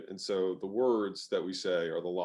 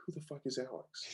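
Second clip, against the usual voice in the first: confused inner voice; 4 semitones higher, 10 dB quieter than usual. Retold or imitated. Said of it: "you're racing 'cause you're like".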